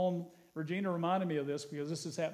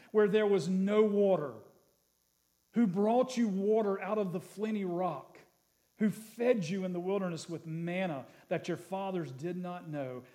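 scripture reading. Acted. Pastor reads the promise of the land to the church, proclaiming. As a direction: lift the verse to the room.

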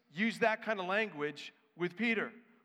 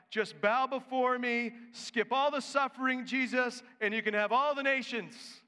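tempting Satan; 5 semitones higher, 4 dB louder than usual. Retold or imitated. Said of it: "what Satan was offering Jesus".

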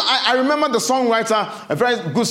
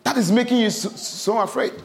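high, firm, raised rebuke fading at the end; stern Jesus; 4 semitones higher than usual. Acted. Jesus sternly rebuking his disciples, raised and firm. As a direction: scold them sternly, then let it drop. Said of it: "He told them sternly".

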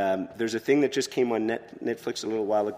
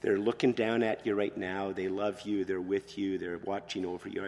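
comforting eulogy; 2 semitones lower, 4 dB quieter than usual. Retold or imitated. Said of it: "look at the people who are grieved".

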